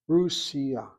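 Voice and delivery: "Russia" as RUS-ya, weight on RUS; first-syllable stress. Shown as a demonstration. Teacher modelling Hebrew word, "Russia" stressed on first syllable. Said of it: "with the emphasis on that first syllable".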